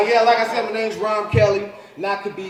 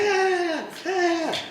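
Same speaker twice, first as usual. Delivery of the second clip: put-on kids whining; 12 semitones higher, much slower than usual. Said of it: "they're like".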